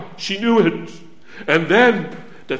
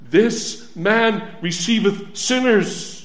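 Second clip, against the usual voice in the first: full-voiced proclamation; slower than usual. Shown as a demonstration. Preacher proclaiming the verse back to the congregation. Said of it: "What do we read in the Bible?".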